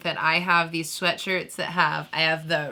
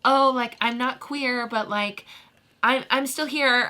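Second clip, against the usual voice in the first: mock ally voice; 7 semitones higher than usual. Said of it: "when people are like".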